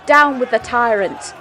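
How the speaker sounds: uproar shout. Acted. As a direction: chant it in the uproar. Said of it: "In the uproar".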